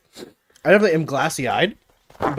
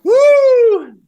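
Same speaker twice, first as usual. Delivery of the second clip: high pained whoop; 8 dB louder than usual. Real, not acted. Burning from hot sauce.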